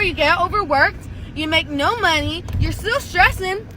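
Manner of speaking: lisping around a healing tongue ring; slurred s sounds from a tongue piercing. Real, not acted. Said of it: "sorry about my lisp. My tongue ring is still healing".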